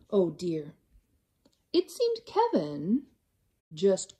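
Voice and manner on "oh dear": whisper. A narrator's reading. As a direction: hush it like a secret. Narrator whispers aside.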